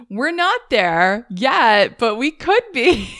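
slow, teasing menace fading into a whisper; creepy warning. Retold or imitated. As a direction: play a lurking creature, drawing out the threat. Voicing lurking creatures' warning.

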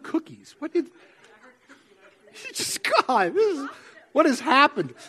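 breaking into real laughter mid-sentence; amused, giggling through the lines; laughing. Real, not acted. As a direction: laugh through the words, caught off guard. Cookies surprise, laughing mid-sermon.

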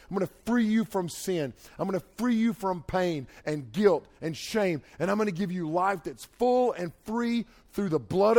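emphatic, rhythmic gospel proclamation; impassioned preaching. Acted. Preacher voicing God's promise to young people, fervent. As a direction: drive each promise home, punching the key words.

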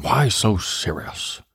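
slow, drawn-out comic-villain voice; slow, eerie villain taunt; Joker. Retold or imitated. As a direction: stretch every word like the Batman villain. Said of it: "That's like Joker on Batman".

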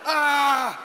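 drawn-out playful "ah"; mock wail. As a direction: let out a hammed-up cry. Playful cry while wrapping up.

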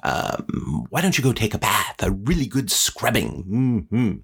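lightly voiced storybook witch; swooping up on key words; a hint of a scheming old witch; Baba Yaga. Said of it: "And then Baba Yaga says".

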